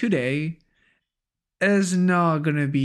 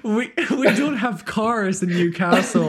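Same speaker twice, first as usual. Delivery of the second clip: higher, louder laughing mockery; laughing tease; 6 semitones higher, 3 dB louder than usual. Real, not acted. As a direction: tease him with a grin. Mock Newcastle teasing, laughing.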